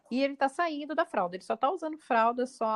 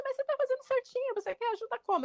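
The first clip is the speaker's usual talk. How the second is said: gentle reassurance; 11 semitones higher than usual. Retold or imitated. Reassuring the child, higher.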